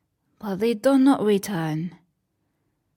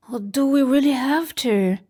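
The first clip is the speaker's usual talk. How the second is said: higher, quick pleading; reluctant children; 5 semitones higher, faster than usual. Acted. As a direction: whine a little.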